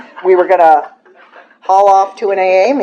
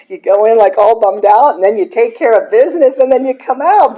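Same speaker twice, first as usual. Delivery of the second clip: gleeful; 7 semitones higher, 5 dB louder than usual. Retold or imitated. Joyful trip into the closet.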